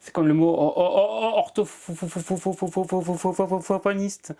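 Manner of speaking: blocked on "or-", a long silent pause, then "orthophoniste" comes out; stuck on the first syllable, then release; real stutter. Real, not acted. Guest stuttering on a hard word in the interview. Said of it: "c'est ce qu'on appelle le bégaiement".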